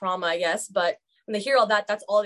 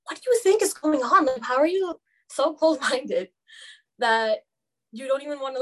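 raised pitch, incredulous challenge; indignant retort; 3 semitones higher than usual. Retold or imitated. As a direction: push back at close-minded classmates, exasperated. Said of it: "And I'm like".

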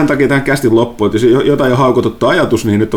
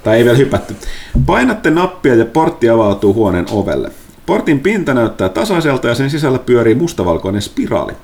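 game master narration. Acted.

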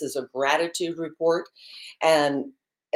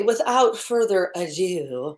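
put-on French accent; slower than usual. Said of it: "best of my French accent".

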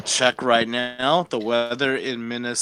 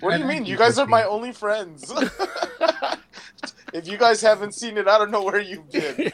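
mock offended; 6 semitones higher than usual. Joking mock outrage.

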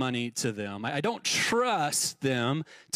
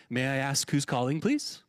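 polite phone voice; 5 semitones lower than usual. Retold or imitated. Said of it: "the polite way of saying that is".

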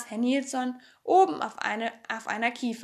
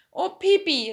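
excited call; high, loud, agitated cry; Annika; 6 semitones higher, 6 dB louder than usual. A narrator's reading. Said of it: "rief Annika ganz aufgeregt".

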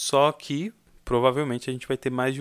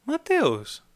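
the name thrown much higher; sharp high call; 10 semitones higher than usual. Shown as a demonstration. Teacher showing a higher, stronger call of his name. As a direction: call Mateus high like a summons. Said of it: "Ou se alguém me chamar".

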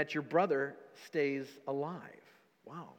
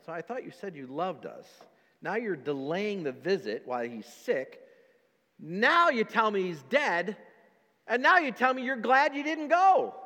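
mock disciples complaining, building to raised pitch; hurt complaint. Disciples complaining to Jesus about his delay, rising.

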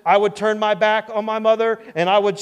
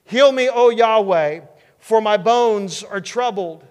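louder, higher, slow plea to heaven; desperate cry; 3 semitones higher, 6 dB louder, slower than usual. Acted. David pleading with God for healing, desperate cry. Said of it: "he cries out in desperation".

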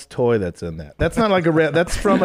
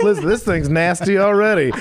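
brash party guy, slightly raised; 4 semitones higher than usual. Retold or imitated. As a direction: voice the guy at the fountain. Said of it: "that's what the guy with his ass out".

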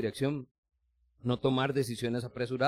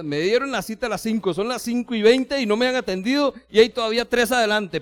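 higher, louder irritated grumble; impatient complaint; 7 semitones higher, 7 dB louder than usual. Acted. Patient in the waiting room complaining to staff about the delay, irritated. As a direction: complain you've waited too long.

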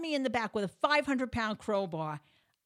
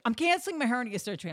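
fast, higher mock-panicked announcement; husband in panic; 4 semitones higher, 4 dB louder, much faster than usual. Panicked husband telling wife about surgery, rushed and raised voice. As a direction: rush it out like a flustered husband. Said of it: "My husband is in this huge panic".

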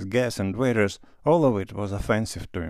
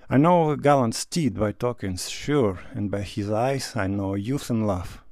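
declaiming. A narrator's reading. Stepan Arkadyevich teases Levin in love, lightly declaiming verse. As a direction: recite it like a playful poem.

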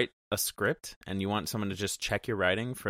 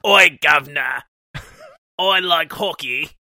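a terrible Canadian impression, shouted; loud mock Canadian voice in a bad Canadian accent; 6 semitones higher, 7 dB louder than usual. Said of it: "spot on Canadian accent".

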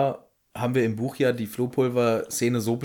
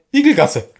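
louder, higher bewildered Igelgasse; confused Harry; 6 semitones higher, 8 dB louder than usual. Retold or imitated. Harry confused in the empty fireplace. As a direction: say Igelgasse lost and unsure. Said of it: "guckt verwirrt und sagt".

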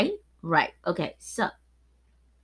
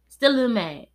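still a little mad; 4 semitones higher, 4 dB louder, faster than usual. Real, not acted. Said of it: "I'ma say that".

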